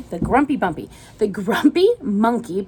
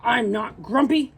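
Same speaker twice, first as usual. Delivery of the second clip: indignant denial; 3 semitones higher than usual. Acted. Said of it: "said Jim".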